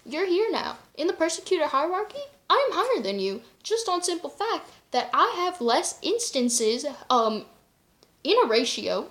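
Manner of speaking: mock-defiant rant at a rival; retold heated comeback. Retelling her heated comeback.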